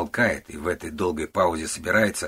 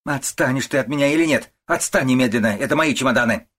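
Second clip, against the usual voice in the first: angry shouting; 6 semitones higher, 6 dB louder than usual. A narrator's reading. Mother-in-law fights off daughter-in-law.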